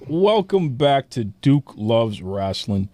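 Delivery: slow, drawn-out announcer welcome; show host welcome. Acted. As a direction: open the show like a ring announcer.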